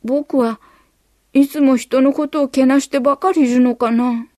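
put-on a kid thinking it over; boy wondering. A narrator's reading.

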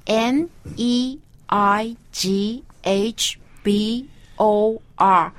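slow letter-by-letter N E I G H B O R; spelling it out. Shown as a demonstration. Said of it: "Can you spell it?".

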